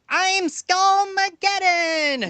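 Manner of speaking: very high, slow hammy villain; corny villain voice. Retold or imitated. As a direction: ham up a cheesy game villain. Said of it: "he sounds just like this".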